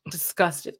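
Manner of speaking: breathy whispered word. Real, not acted. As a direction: whisper it in disgust. Whispered after the story.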